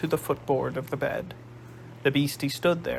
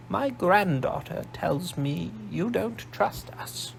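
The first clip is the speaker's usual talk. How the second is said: put-on slow, higher posh old lady voice; a shrewd old matriarch, sizing him up; old grandmother; 4 semitones higher, slower than usual. Old Nene studies Darren in a slow, higher posh voice.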